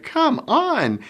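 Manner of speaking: drawn-out impatient come on; impatient urging. Retold or imitated. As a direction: hurry a dawdling child along. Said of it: "you like".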